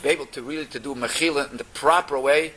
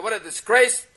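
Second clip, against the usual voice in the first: indignant outburst; 7 semitones higher than usual. Retold or imitated. Butcher rants, stomps his foot.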